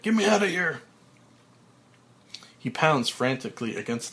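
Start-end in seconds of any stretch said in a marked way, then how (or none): 0.0-0.8 high, loud frantic shout; berserk yell. Acted. Frank buried alive, berserk shout. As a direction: scream to be let out. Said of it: "Frank goes berserk".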